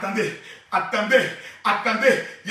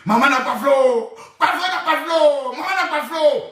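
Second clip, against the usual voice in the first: laughing mockery; 3 dB louder than usual. Répète en riant, moqueuse.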